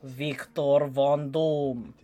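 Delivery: slow, drawn-out announcement of a villain; dramatic villain name. Pretend. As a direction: stretch the name out like a big reveal. Villain name intoned slowly.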